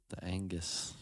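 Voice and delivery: unvoiced whisper of Angus. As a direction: hush the word Angus conspiratorially. Whispering the joke word.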